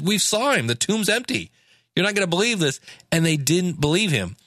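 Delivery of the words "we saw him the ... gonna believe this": higher, mock-excited women reporting the empty tomb. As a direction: lightly voice the women bursting with news. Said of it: "the guys and said".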